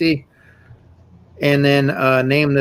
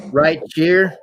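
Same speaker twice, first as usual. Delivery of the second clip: local Southern phrase. Retold or imitated. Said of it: "have you heard anybody say".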